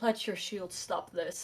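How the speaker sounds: whispered, in a put-on character voice. Casting a spell on a foe in combat: whispering in character. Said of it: "just whisper to him in Aquan".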